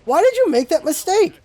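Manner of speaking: half-laughing, fed-up outburst at a teammate; hammed-up angry teammate callout; mock heated rant. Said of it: "sometimes I get here like".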